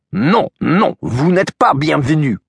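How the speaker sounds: lightly voiced spirit refusing entry; ghostly French woman. Feminine ghost voice in his head.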